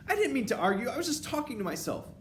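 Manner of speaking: high, stammering apology; cowering underling witch; frightened cry. A narrator's reading. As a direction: plead in a high, panicked voice. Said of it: "the witch cried out".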